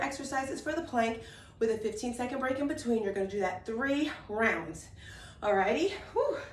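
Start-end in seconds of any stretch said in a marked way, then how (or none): 5.4-6.4 out of breath. Real, not acted. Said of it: "A little bit out of breath".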